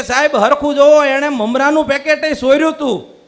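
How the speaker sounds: mock protest. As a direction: stand up and protest to the judge, lightly hammed. Husband stands up, objects to the judge.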